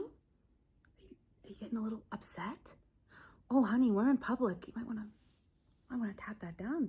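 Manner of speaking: mocking whisper. Mocking him as he gets upset.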